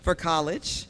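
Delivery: building announcer call; booming prize announcer. Acted. Announcing the grand prize winner.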